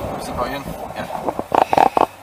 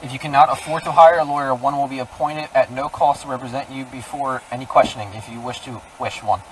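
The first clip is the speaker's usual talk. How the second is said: reading Miranda rights; 4 dB quieter than usual. Real, not acted. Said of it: "I'm gonna read you your Miranda rights".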